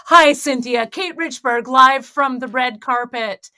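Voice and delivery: red carpet host greeting; bubbly celebrity reporter intro; gushing red carpet chatter. Pretend. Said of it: "what I did was".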